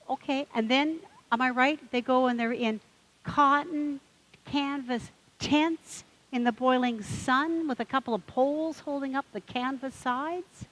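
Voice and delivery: mock-indignant questions piling up; worked-up duck.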